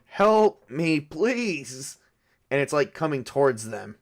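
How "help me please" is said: loud high screaming for help. Acted. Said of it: "start screaming for them".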